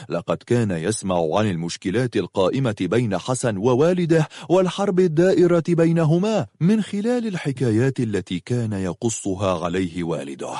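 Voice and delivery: ordinary delivery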